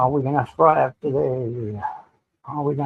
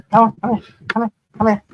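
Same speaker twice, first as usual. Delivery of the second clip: high, loud call to the dog; 8 semitones higher, 4 dB louder, much faster than usual. Real, not acted. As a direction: call the dog over, bright and eager. Calling the dog over.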